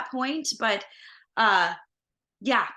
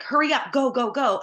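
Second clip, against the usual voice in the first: hurried, raised push to go; frantic urging; 4 semitones higher, 3 dB louder than usual. Retold or imitated. Fish voice urging her to run, frantic. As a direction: urge her across the street in a hurry.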